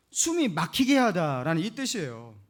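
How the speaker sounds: usual speaking voice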